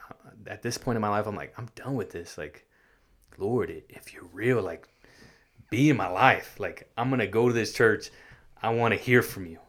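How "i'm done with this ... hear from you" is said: pleading prayer. Retold or imitated. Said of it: "trying to talk to God".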